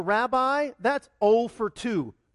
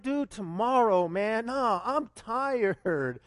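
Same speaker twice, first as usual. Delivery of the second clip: mock tired; much slower than usual. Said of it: "I'm like".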